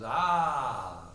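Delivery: long, loud hammed-up "Ah"; mock dramatic wail. Brother in the family drama, mock dramatic wail. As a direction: wail like an overacting stage actor.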